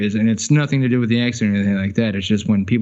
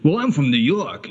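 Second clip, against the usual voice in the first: lightly voiced New Yorker, pitched up; proud New Yorker; 4 semitones higher than usual. Mocking New Yorkers' pride in their city, lightly boastful. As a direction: imitate hometown pride a little. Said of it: "that pride of".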